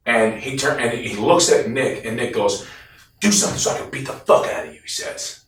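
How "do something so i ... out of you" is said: high-pitched retold taunt; acted threat. Nick daring the delivery driver to act, acted threat. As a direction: goad him into a fight, in imitation.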